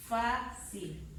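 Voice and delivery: "fácil" in two syllables, FÁ leading; stressed syllable demo. Shown as a demonstration. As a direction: gently lean on FÁ in "fácil". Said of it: "dónde está la fuerza de voz".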